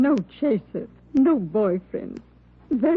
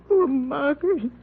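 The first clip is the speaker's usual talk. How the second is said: tearful. Acted. Grieving neighbour at murder scene.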